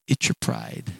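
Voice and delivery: low, hushed whisper; whispered truth. Acted. Servants to their proud master, a hushed whisper.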